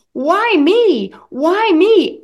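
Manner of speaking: loud, tearful why me; retold anguished cry. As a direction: cry out in teenage despair. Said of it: "screaming, crying".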